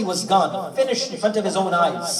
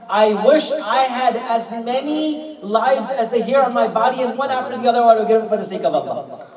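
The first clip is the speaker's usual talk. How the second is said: higher, fervent storytelling voice; raised voice, stretched opening, then rushing on; impassioned retold declaration; 4 semitones higher, 3 dB louder than usual. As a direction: proclaim the companion's wish with fervour. Repeats companion's wish with fervour.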